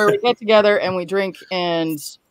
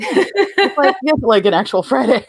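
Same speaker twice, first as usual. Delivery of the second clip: laughing; 4 semitones higher than usual. Real, not acted. Laughing agreement.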